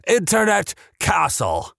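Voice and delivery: slow, high, disbelieving repeat of Internet Castle; incredulous repeat. Real, not acted. Host repeating a viewer's odd name, slow and disbelieving. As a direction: say it slowly, savouring the absurd name. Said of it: "This is not a joke, by the way".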